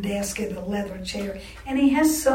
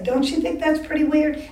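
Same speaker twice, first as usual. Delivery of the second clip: higher, louder sneering question; mocking aside; 6 semitones higher, 4 dB louder than usual. Dean asking the woman beside him, mocking. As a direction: jeer to his companion for a laugh. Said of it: "look at this woman and say".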